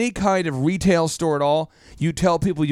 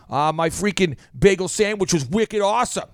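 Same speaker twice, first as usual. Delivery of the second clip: light mock Boston accent. Boston local reviewing a bagel sandwich, mock accent. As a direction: lay on a little Boston. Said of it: "if you live in Boston".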